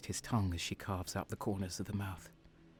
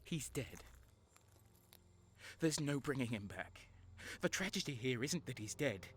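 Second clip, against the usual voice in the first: quiet grim; 3 semitones higher, 10 dB quieter than usual. Acted.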